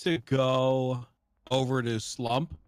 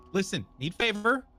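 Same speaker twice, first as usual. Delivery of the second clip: caveman voice; 9 semitones higher than usual. Acted. S1 voicing a simple-minded character to Slump.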